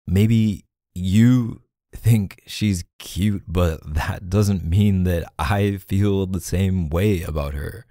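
slow, deliberately spaced words; defensive explaining. Acted. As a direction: spell it out slowly, leaning on the key words. Defensive explanation to jealous partner.

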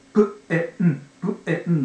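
プエン in short bits with an open "eh"; separate sounds. Shown as a demonstration. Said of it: "イの発音がエー".

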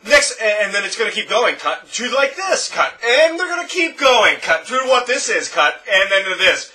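high, loud, choppy YouTuber talk; mock every jump cut, loud and high; jump-cut YouTuber parody. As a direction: parody a hyped vlogger edit. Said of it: "Sounds like this when they talk".

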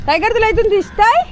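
high-pitched pet voice, questions rising; high, lilting dog talk. Real, not acted. Talking to the dog Tiger.

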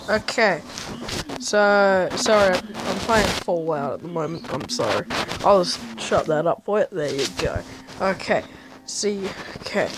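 loud and rowdy. Real, not acted. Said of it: "I sound like a drunk maniac".

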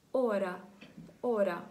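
"ора" starting straight on the vowel o; silent h. Shown as a demonstration. Teacher giving an example word, silent h. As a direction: model "ора" with no h, falling in pitch. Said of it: "Тут він теж не вимовляється".

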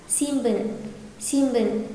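"xin bần" with the n of "xin" said as m; N turned to M. Shown as a demonstration. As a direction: close the lips on "xin" before "bần". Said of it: "lái chữ ừn thành chữ M". (đọc "xin" thành "xim" trước "bần")

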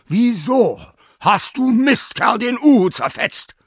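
high, loud furious scolding; scolding the dog. Acted. Sina yells at the dog over the owl, furious. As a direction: tear into the dog who shredded the owl.

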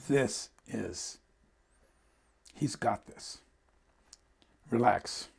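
low, soft and settled; quietly reassure, letting each short phrase rest; calm reassurance. Real, not acted. Echoes the wife's calm reassurance.

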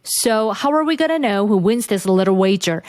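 very slow, careful repeat of the line; slow shadowing model. Shown as a demonstration. Teacher slowing the clip line for shadowing. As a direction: read it slowly for learners to copy. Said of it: "조금 발음 어렵다 하시면은".

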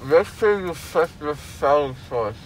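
slurred with gauze in mouth; numb mouth. Real, not acted. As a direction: talk through a numb mouth.

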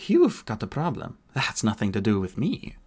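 put-on a light Irish lilt, the young woman's retort; hint of a soft Irish accent, dismissive; gently Celtic-accented young woman. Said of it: "the accent soft and vaguely Celtic".

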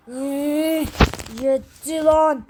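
slow loud shout of enough; fed-up shout. Acted. Fighter fed up with the kid, shout. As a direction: bellow that you've had enough.

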